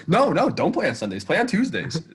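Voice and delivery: high-pitched guilt-trip imitation; mock protest, pitched well up to lay on guilt; exaggerated, swooping martyr act; Easton. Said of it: "trying to make us, like, feel bad".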